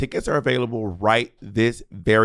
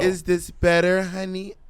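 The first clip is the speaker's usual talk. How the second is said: mock co-host voice; 4 semitones higher, slower than usual. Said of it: "I'm trying to talk like your co-host".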